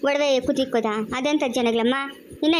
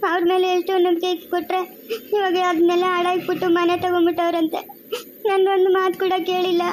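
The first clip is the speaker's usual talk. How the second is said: crying; 3 semitones higher than usual. Acted. Young woman to the lady over lost jewels, crying. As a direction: plead through tears, voice catching. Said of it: "ಅಳ್ಬೇಡ, ಸುಮ್ನೆ ಇರಮ್ಮ".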